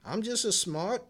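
playful fake Australian accent; mock Australian accent. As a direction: tease a friend with a clumsy Aussie impression. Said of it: "give 'em that cute accent".

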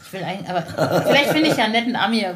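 rushed, giggling tease; laughing. Real, not acted. Host laughing as she jokes about finding a nice American. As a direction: laugh it out fast.

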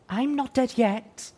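slow, faint injured call; weak voice. A narrator's reading. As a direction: call out weakly, wounded. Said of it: "a weak voice called out".

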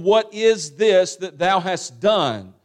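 slow, stern rebuke with mild anger; acted indignation, each word drawn out; outraged. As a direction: demand an answer slowly, as an upset Lord. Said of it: "he's outraged. He's upset".

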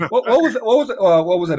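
high laughing voice through the words; laughing question. Real, not acted. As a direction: laugh while trying to ask. Laughing while asking.

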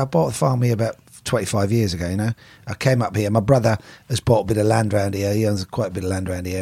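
lightly put-on Cockney, R's dropped; Cockney accent. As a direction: imitate a London Cockney farmer chatting. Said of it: "Do his accent".

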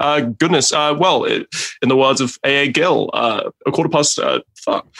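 lightly voiced dithering Englishman; Hugh Grant. Answering mum in character, light hesitant Englishman voice. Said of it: "I would just answer her".

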